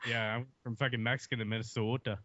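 put-on teasing Minnesotan accent with long o's; hammed-up Minnesotan accent; mock Minnesotan accent. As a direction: keep needling in a Minnesota accent. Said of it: "You making fun of my accent already?".

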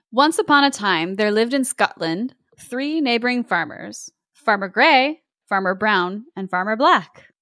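measured storybook narration; story narration. A narrator's reading. Host reads a Scottish tale to co-host, story narration. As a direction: read it as a classic tale.

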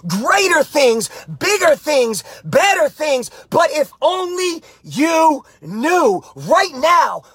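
rousing motivational preaching, pushing hard. Acted. Coach fires up his live viewers, rousing preaching. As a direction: fire up the viewers like a pastor.

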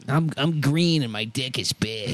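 deep, low bully voice; Roger voice. Pretend. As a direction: growl it like a cartoon bully. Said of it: "Oh, is that Roger?".

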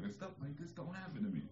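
high, softened voice of disbelief; mock-amazed, pitched well up and kept small; retold amazement. Recalling his reaction at sixteen, retold amazement.

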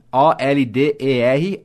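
O L D E R spelled letter by letter, slow; spelled out slowly. Shown as a demonstration. Teacher spelling O L D E R slowly to the student.

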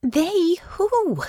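high, insistent question; pressing. A narrator's reading. Honor presses Natasha about who they are, insistent. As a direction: press for an answer, pitched well up. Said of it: "Honor pressed".

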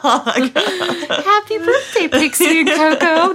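high, slow laughing coo to pets. Real, not acted. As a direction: giggle it out to the dogs. Sing-song to the dogs.

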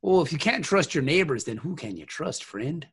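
put-on folksy Midwest accent. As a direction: talk like a friendly Midwesterner. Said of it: "I love your Midwest accent".

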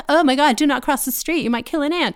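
high, hammed-up gushing voice; high, fast, over-the-top worrier; mock overcautious lefty. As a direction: play a fretful do-gooder, way up high. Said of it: "We are the ones who are like".

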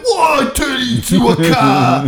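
a bad impression of the British co-host's accent; mock British accent. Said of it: "I wanna do my accent".

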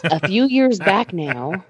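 slow storyteller opening; hushed creepy legend telling. Acted. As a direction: draw it out like a campfire tale. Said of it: "gather round, kids, I'll tell you a story".

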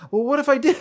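loud, high-pitched retold challenge; mock defiant comeback. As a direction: toss it back, hammed-up. Acted defiant admission of denial.

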